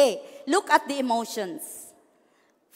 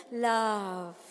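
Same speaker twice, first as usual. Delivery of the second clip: tender love; 3 semitones lower, 5 dB quieter than usual. Shown as a demonstration. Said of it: "let's say it with emotion".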